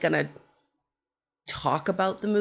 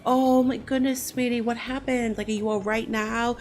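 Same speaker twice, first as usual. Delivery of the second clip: higher, sympathetic fussing voice; concerned woman; 5 semitones higher than usual. Retold or imitated. Woman on the bus fussing over her injured friend, higher and sympathetic. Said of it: "And the woman's like".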